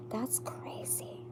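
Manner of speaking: a slow, hushed whisper of disbelief; awed whisper. Real, not acted. Reader whispers in awe at the tarot cards. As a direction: let the amazement drop to a breath.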